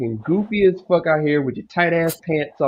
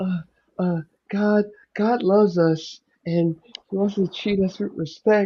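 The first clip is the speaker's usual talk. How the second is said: gentle, soft-spoken, hushed voice; 4 semitones higher, 5 dB quieter than usual. Imitating a woman who was trying to preach: imitating a soft voice. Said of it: "she sounds so soft".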